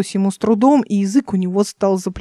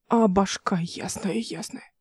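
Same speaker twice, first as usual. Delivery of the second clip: breathless whisper, barely voiced; 8 dB quieter, slower than usual. A narrator's reading. Drunk pilot whispering to his friends. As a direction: whisper it to yourself, drained.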